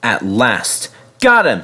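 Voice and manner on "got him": high, mild triumphant shout. A narrator's reading. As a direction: call it out on a raised pitch. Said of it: "he shouted".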